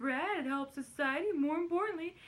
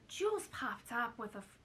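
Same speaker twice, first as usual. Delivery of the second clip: lightly put-on celebrity voice, slipping off target; a hint of Peter Lorre in a shaky impression attempt; botched Carol Channing. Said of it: "that sounds like Peter Lorre".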